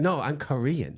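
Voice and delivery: indignant put-on Asian accent. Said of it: "They'd be like".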